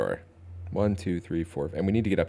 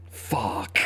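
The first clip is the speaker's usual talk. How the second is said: whispered curse; 4 dB quieter than usual. Real, not acted. Dismayed at bad draw.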